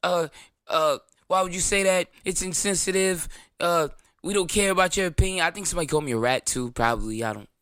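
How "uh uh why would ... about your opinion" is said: mock the offended crowd; indignant mock commenters, pitched up; mock outrage. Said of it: "people was in outrage".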